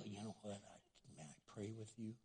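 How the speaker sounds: very soft, low-key offer of comfort; softened voice. Shown as a demonstration. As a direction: speak gently to soothe someone upset. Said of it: "the softer you put your voice".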